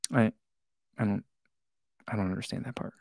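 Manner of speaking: breathy aside of real confusion; whisper. Real, not acted. Vlogger admitting to viewers he's lost, whispered. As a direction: whisper it, half to yourself.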